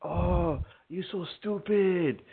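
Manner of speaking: hammed-up high taunt; high mocking voice. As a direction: squeak it out to mock him. Mocking caller voice again.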